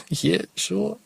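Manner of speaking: laughing it off, soft and high; a stifled laugh through the words; laughing off a stranger's boast. Real, not acted.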